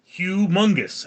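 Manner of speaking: slow "humongous", opening on a drawn-out "hyu"; corrected pronunciation. Shown as a demonstration. Streamer accepting the chat's correction, deliberate pronunciation. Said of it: "It's pronounced Hugh".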